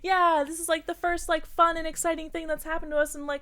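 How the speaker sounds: high, chirpy mock excitement; mock excited friend. Imitating friends before beach day, high mock excitement. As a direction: gush about beach day, hammed-up. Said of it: "we'd be like".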